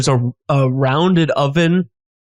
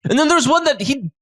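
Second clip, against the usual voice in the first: chef telling a dubious story with relish; name-drop proudly in a lifted character voice; self-satisfied theatrical storyteller; boastful chef character; 5 semitones higher than usual. Acted.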